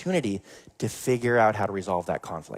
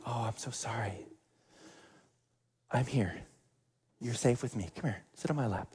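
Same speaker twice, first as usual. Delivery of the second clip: much softer, tender grandmother voice; soothing nana; 10 dB quieter than usual. Retold or imitated. Nana to the crying boy, soft and tender. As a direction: hush him gently, you're safe.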